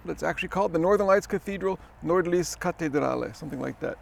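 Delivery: talking around a mint; eating a mint. Real, not acted. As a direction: mint in the mouth, words a bit thick. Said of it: "I'm, uh, eating a mint".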